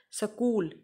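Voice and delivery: स्कूल said səkul with a schwa after s; स्कूल as sə-kul, set apart; demonstrated pronunciation. Shown as a demonstration. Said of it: "स्कूल इसको बोला जाता है".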